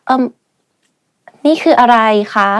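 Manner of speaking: polite, fast นี่คืออะไรคะ; courteous question. Shown as a demonstration. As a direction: ask it politely and quickly. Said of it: "If you want to be polite".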